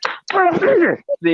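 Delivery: drawn out. Pretend. Slow high drawn-out lead-in.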